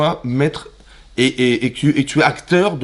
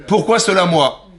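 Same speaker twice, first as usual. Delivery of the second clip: higher, clumsy word-for-word French; broken French; 5 semitones higher, 3 dB louder than usual. Shown as a demonstration. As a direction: stress "Pourquoi" in stiff broken French. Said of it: "C'est pas comme ça qu'on dit".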